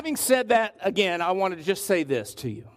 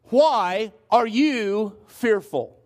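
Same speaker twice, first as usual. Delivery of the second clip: "you" set apart and drawn out; slow question, leaning deliberately on "you"; emphasis on YOU; much slower than usual. Shown as a demonstration. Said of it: "I put the emphasis on a certain word".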